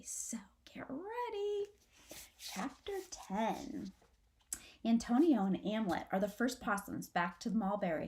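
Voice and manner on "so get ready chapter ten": whisper. Real, not acted. Teacher readies kids for reading.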